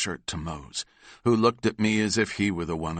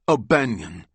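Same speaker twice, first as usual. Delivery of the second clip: calling out; 3 semitones higher, 5 dB louder than usual. Acted. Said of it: "I heard DeMarco cry behind me".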